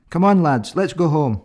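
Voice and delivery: calling to friends. Acted. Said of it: "It might go something like this".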